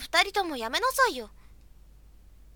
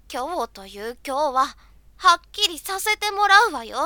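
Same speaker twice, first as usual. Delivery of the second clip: angry demand; 5 dB louder than usual. Acted. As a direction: demand it, escalating. Confrontation demanding answer.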